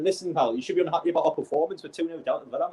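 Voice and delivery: high, fast, scolding rant; telling off. Real, not acted. Fan scolding a whinging Newcastle player, high and fast. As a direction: put the player in his place.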